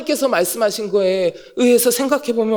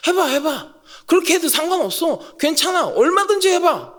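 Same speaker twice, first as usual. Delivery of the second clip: confident dare; 6 semitones higher than usual. Shown as a demonstration. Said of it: "자신감이에요".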